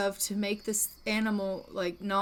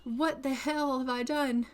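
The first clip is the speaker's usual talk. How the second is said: higher, acted distress; alarmed protest; 4 semitones higher than usual. Scared vampire hunter lost in the woods, alarmed. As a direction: wail the questions in mild panic. Frightened, lost, facing the wolf.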